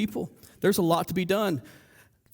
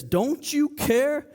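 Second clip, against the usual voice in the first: slow, drawn-out mock reproach, pitched up; indignant interruption; 4 semitones higher, much slower than usual. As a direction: stretch out an accusing question. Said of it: "She interrupts Jesus".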